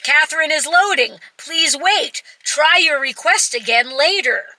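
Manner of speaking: lightly acted automated message, voice lifted; automated error message. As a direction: recite it like a computer error notice. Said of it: "sends this person an error message".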